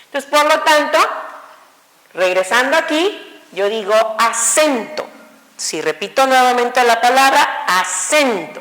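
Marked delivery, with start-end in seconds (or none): 4.2-5.0 "acento" as one word with weight on "cen"; stress on CEN. Shown as a demonstration. Teacher locating the tonic syllable, "acento" stressed on "cen". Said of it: "quiero decir que sen llevó esa". 7.7-8.6 "acento" repeated with the middle "cen" held and stressed. Shown as a demonstration. Teacher repeating the word for students, "acento" stressed on "cen". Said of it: "quiero decir que sen llevó esa".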